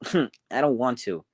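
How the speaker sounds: huffy little refusal; mildly sulky, with a hmph first; puffed up. Acted. Thomas refusing the order to apologize, puffed up. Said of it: "puffed up, and he's like".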